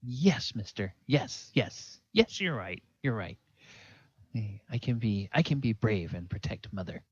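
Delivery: put-on little boy vowing bravery; earnest young boy. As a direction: agree like a lad promising to be good.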